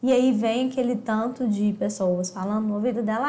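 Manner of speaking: normal talking voice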